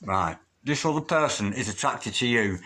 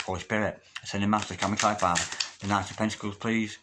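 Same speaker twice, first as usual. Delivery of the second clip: murmured invocation. Acted. Calls on spirit again.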